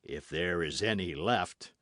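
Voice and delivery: understated jeering aside; jeering grumble. Acted. Athos from cellar about the wine, jeering grumble. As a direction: grumble it with a touch of mockery. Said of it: "grumbled the jeering voice of Athos".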